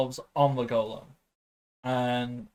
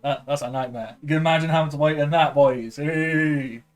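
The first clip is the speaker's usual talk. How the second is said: a hint of a nervous officer talking his way through; rambling soldier Wedge. Wedge smooth-talking the gate guards, lightly flustered.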